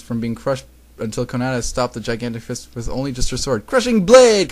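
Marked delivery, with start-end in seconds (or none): 3.7-4.5 high, loud attack call; anime-style attack shout; battle yell. A narrator's reading. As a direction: yell out the special move. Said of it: "Konata yells".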